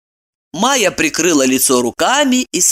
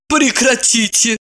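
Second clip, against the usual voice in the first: indignant; 6 semitones higher than usual. Acted. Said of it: "возмутилась Ирина".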